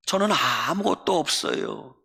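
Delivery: 저는 아무것도 없어요 with a sulky falling tone on 저는; sulky complaint. Retold or imitated. Poet grumbling to God about having nothing, sulky. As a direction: grumble it like a hurt child. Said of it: "볼멘 소리로 기도했어요".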